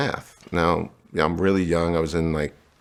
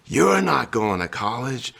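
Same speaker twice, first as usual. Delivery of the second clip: slow, higher, flat refusal from the mother; mother's stern refusal; 6 semitones higher, slower than usual. Retold or imitated. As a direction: say it slowly and higher, shutting the door on him. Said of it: "she looks at the letter and she goes".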